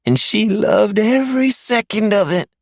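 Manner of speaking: high, loud vicious taunt; sneering captive man. Acted. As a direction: spit the last insult at him. He bares his yellow-stained teeth.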